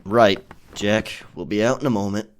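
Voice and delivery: loud call across the ship to a crewman. Acted. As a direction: raise your voice so Jack hears you outside. Calling out to crewman Jack.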